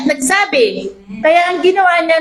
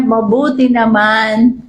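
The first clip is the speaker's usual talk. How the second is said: calm reassurance; 4 semitones lower, slower than usual. Retold or imitated. Mother calmly answers despite death.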